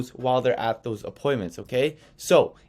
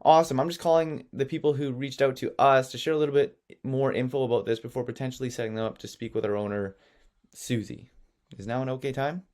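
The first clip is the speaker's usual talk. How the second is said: innocent little worker. Shown as a demonstration. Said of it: "the innocent, you know, little worker".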